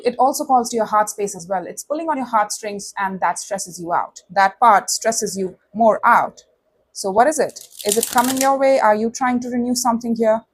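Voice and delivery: usual speaking voice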